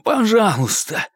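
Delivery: pleading. A narrator's reading. Begging Kurtz to move knee.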